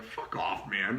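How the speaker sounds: breathy whispered fuck off; whispered brush-off. Retold or imitated. Telling the buyer off, in a whisper. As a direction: breathe it out like a dismissal. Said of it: "I was like".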